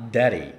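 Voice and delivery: "daddy" als "deri", getikte d; flap D. Shown as a demonstration. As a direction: tik de d in "daddy". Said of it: "영어에서는 아빠처럼 들리는 거예요".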